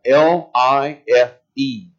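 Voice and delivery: "L I F E" spelled letter by letter, slow; spelled out slowly. Shown as a demonstration. Preacher spelling the key word for the congregation, slowly. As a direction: spell out "L I F E" deliberately. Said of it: "I want you to focus on that".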